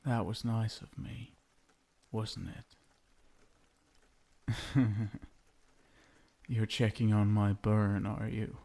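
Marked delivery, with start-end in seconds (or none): 4.6-5.2 amused laugh. Acted. Amused at his own cruelty.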